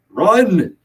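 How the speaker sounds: high, loud urgent cry; shriek. A narrator's reading. Perun urging John to escape the gunman, shrieked. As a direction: shriek it as an order to flee. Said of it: "Perun shrieked".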